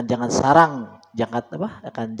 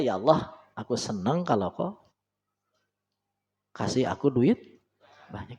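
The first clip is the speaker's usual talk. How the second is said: calm prayer; 2 semitones lower, 5 dB quieter than usual. Shown as a demonstration. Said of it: "Kalau yang keren gitu aja".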